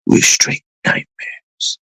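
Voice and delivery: slow whispered gangster line; re-doing the villain's whispered threat; menacing film villain. Retold or imitated. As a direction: breathe it out as the villain. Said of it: "And then he goes something like".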